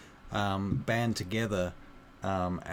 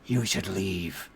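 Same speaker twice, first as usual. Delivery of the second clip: slow, ominous orc voice; orc child, ominous; slower than usual. Acted. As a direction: warn them slowly as a sickly orc child. GM voices diseased orc child warning.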